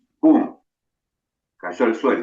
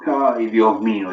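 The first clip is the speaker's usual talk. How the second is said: mother's dismay; slower than usual. Acted. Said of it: "dice la madre".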